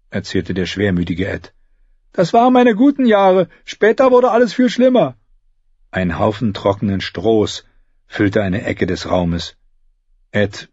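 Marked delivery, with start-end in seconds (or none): 2.1-5.2 high, whiny gloomy voice. Acted. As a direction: moan it like a glum squire. Gloomy Ed speaks.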